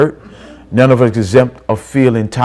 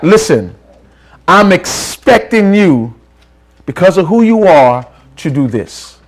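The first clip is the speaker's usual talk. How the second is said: insistent demand; 5 semitones higher than usual. Acted. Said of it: "it moves from wish".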